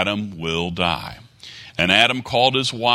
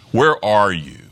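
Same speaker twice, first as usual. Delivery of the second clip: louder call with "where" raised and a falling end; 5 dB louder than usual. Acted. Preacher voicing God calling out loudly to hidden Adam. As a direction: call it out across the garden.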